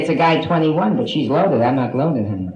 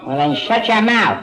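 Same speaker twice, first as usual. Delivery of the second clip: mock rude put-down; 6 semitones higher than usual. Snapping back at a heckler.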